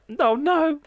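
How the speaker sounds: high, loud refusal; alarmed protest. Real, not acted. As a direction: cry out in protest. Protesting what viewer said.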